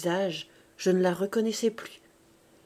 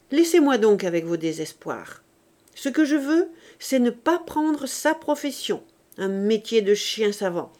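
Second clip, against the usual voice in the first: louder, stubborn retort; defiant outburst; 4 dB louder than usual. Acted. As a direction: throw it back at her, fed up. Son shouts back at mother.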